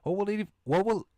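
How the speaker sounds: high, bright schoolgirl greeting; girl character voice. Acted. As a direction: sing out a cheery hello to a classmate. Same girl character panicking about test.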